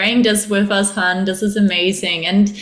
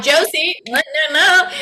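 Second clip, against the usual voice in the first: higher, laughing "no, no, no"; laughing mock scolding; 6 semitones higher than usual. Her ego scolding her for leaving comfort, laughing mock scolding. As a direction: scold yourself through laughter.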